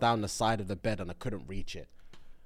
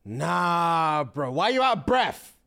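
shocked; 7 semitones higher, 5 dB louder, slower than usual. Retold or imitated. Acted outraged reply on phone.

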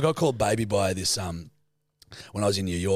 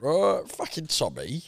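slow gangster growl; Alfie impression; 5 semitones higher, slower than usual. As Alfie about Tommy, a slow gangster drawl. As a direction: drag it out like Alfie. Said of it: "Talking like that".

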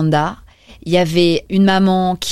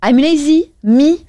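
higher, louder incredulous protest; mock indignant; 8 semitones higher, 5 dB louder, slower than usual. Real, not acted. Host teased by co-host for being lazy, indignant. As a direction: throw the accusation back, offended in jest.

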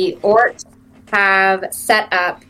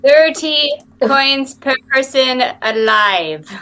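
halfling voice; 4 semitones higher, slower than usual. Acted. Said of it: "Let me find my halfling voice".

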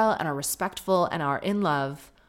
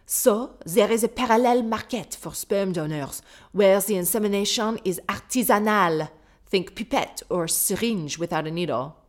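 put-on French accent. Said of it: "I love that this person is French".

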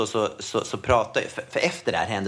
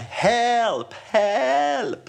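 retold cry for help; 10 semitones higher than usual. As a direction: call out like someone drowning, half acted. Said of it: "någon som skriker ute i vattnet".

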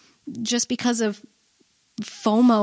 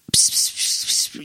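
put-on old woman whispering. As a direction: hiss it like a gossiping old lady. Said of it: "the old lady whisper that's, like, at volume eleven".

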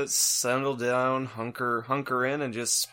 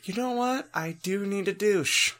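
high mock voice; 6 semitones higher than usual. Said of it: "And Cynthia's like".

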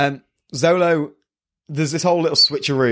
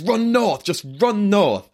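Usopp quote; 9 semitones higher, slower than usual. Retold or imitated. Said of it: "And Usopp goes".

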